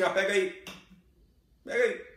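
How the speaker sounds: careless offhand. Retold or imitated. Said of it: "Como se fosse uma bijuteria".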